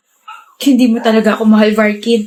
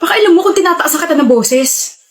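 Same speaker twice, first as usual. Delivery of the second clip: raised voice; 5 semitones higher than usual. Acted. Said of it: "yung boses mo".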